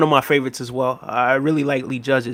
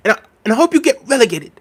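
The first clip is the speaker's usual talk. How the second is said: mock Ty laughing; 8 semitones higher, faster than usual. Imitating Ty, laughing.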